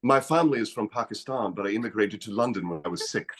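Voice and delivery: lightly imitated Pakistani accent; a hint of a Pakistani accent. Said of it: "do a Pakistani accent".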